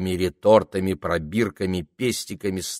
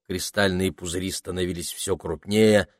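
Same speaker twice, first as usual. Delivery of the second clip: ordinary delivery, nothing marked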